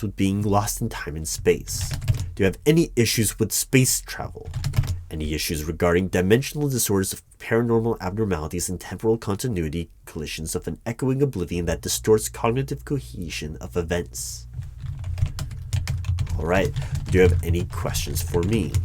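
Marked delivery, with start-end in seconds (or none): 5.1-14.5 fast official patter; rattled-off questionnaire. Acted. Interviewer reads absurd questions to an applicant, rattled off fast. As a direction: reel off the jargon at speed, without a break.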